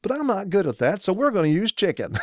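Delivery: mock high Australian presenter voice; Ruthie imitation. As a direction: play up the cheery Aussie host. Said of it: "he's sitting there saying".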